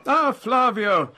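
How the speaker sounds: high, loud, drawn-out greeting; hailing a waiter. Acted. Resident hailing Flavio as the drinks arrive, high drawn-out call. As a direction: call out, stretching the words.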